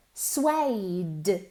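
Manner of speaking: Suede ending on a hard, strong D; strong final d. Shown as a demonstration. Teacher stresses the final d of Suede for students. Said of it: "con una D fuerte al final".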